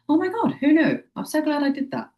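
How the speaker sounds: high-pitched, excited relief; relieved delight. Retold or imitated. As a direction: gush with happy relief. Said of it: "you're like".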